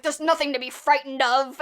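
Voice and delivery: loud, mock furious yell. Ventriloquist yelling at scared girlfriend, loud mock fury. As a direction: bark it at her like an angry ventriloquist. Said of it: "he's, like, yelling".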